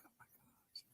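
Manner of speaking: voiceless whisper, stunned; whispered disbelief. Retold or imitated. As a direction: breathe it out as a shocked whisper. Stunned reaction retold.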